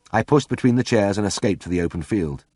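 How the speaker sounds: plain reading voice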